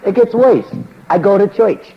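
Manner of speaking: loud, high preaching burst; fired-up pulpit call; preaching shout. Real, not acted. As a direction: hit it like a revival preacher. Preacher rises to full force.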